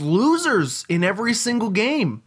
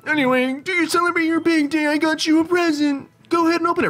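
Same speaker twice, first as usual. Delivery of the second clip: high sweet granny; sweet grandma giving a present; old lady voice; 12 semitones higher than usual. Acted. Continues auntie voice.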